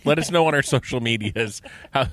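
usual speaking voice

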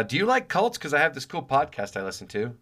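high-pitched, overeager question to a barista; awkward pretend customer. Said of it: "this could never be, uh, like, not awkward".

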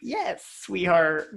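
slow, drawn-out sweet talk; mock flirty. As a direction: linger on it teasingly.

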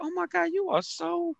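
imitating a sweet old church lady praising him; a hammed-up grandma raving over a young man; gushing old lady. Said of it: "Every time I help somebody, I'd be like".

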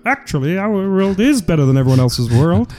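high, strained parody voice; Jordan Peterson. Acted. Comic mocking a pundit who ranks his world best, in a high impression. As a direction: lampoon a self-certain lecturer, pitched right up. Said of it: "not like Jordan Peterson, where he's like".

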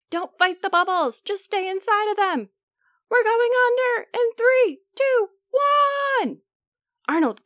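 high, loud drill commands; harsh barking commands. Acted. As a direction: bark orders at the troops. Germ leader orders troops to hide.

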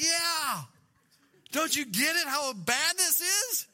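hammed-up, insistent disbelief; exasperated wife impression. Acting out his worried wife.

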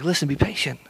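gentle, understated pleading; loving plea. Acted. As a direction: plead softly, out of love. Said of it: "It's like this pleading of love".

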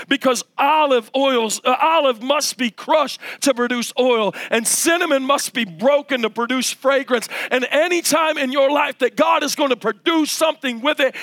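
insistent, repetitive preacher's build; fervent preaching. Real, not acted. Preacher telling the congregation suffering produces fruit, fervent preaching. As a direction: drive each repeated line home, pitch lifted.

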